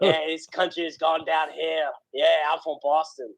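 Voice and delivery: laughing through a hammed-up Boston accent; goofing on a Boston guy, broad and jokey; mock Boston accent. Podcast host mocking Boston accent to cohost, laughing. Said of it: "that is the Boston".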